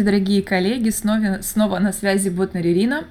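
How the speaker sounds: raspy early-morning voice; hoarse voice. Real, not acted. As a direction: talk through a husky throat. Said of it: "Простите за, а, сиплый голос". (сиплый голос)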